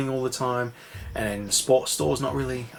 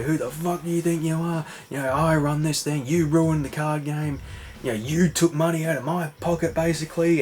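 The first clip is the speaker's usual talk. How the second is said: higher pitched retold telling-off; mock angry; 5 semitones higher than usual. Tony scolding Richie for ruining the game, mock angry. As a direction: give a gangster dressing-down, half acted.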